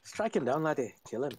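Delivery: put-on Scottish accent. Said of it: "You just turned Scottish".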